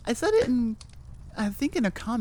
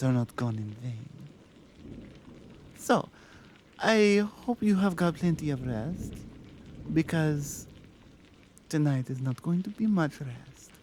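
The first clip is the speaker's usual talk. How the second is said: put-on a lightly accented mafia boss, tender and earnest; accented mafia lover; 2 semitones lower than usual. Mafia lover speaks to listener.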